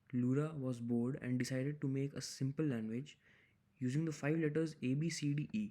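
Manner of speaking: slow, careful reading of the problem text; reading aloud. Acted. Tutor reading the problem statement to viewers, slow and careful. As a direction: read the statement out slowly, word by word.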